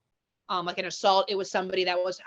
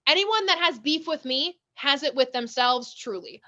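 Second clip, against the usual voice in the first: quoting song line; 4 semitones higher, slower than usual. Retold or imitated. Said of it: "like, a rapper's song".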